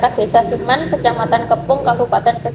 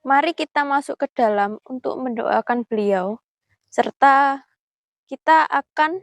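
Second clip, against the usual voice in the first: hushed, careful vlog voice; nervous night vlog whisper; 5 dB quieter than usual. Real, not acted. Hushed talk at the grave.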